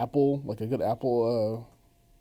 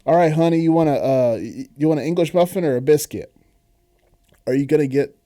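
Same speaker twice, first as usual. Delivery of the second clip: half-hearted mock Southern lady accent, a bit louder; bad Southern lady accent; 3 semitones higher, 7 dB louder than usual. Southern lady offering honey a biscuit, badly faked accent. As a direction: have a shaky go at a Southern lady's accent. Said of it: "hear this accent".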